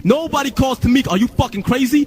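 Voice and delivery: hammed-up high-pitched outrage; aghast label guy. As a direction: imitate a dude appalled at a huge blunder. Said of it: "This is what he was saying".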